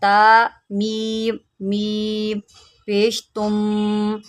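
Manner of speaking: ता मीम spelled letter by letter, the silent मीम said; spelling out letters. Shown as a demonstration. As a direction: spell ता मीम मीम पेश तुम slowly, one letter at a time. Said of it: "कैसे?".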